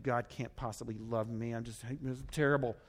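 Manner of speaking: low, soft, downcast voice; mock self-pity. Preacher playing a believer on a bad day, downcast. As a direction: sink into understated self-reproach. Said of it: "I have a bad day, and I'm saying".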